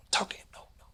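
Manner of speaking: hushed, urgent-sounding imitated whisper; retold whisper. Relatives overheard passing his dad the phone, imitated whisper. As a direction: whisper it, barely audible, as if off the phone. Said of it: "Like, whispering".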